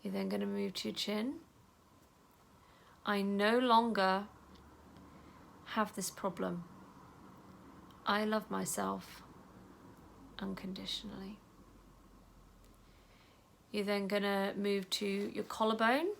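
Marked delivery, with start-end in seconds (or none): 3.1-11.4 calm self-talk while tapping; gentle affirmation. Shown as a demonstration. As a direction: say it tenderly to yourself. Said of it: "tap very gently and just say".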